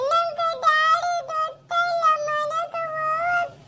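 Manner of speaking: put-on lost child's tearful complaint. Lost child tells a stranger she was left behind, tearful. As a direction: whimper through the words. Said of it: "ಅಳ್ಬೇಡ ಸುಮ್ನಿರಮ್ಮ".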